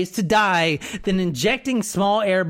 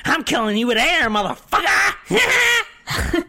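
smug killer. Retold or imitated. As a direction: sneer it like a gloating killer. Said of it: "he's sitting there like".

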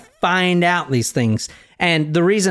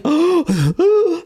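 mock dying gasp; 13 semitones higher than usual. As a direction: act out a dying man's gasp. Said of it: "He's gasping".

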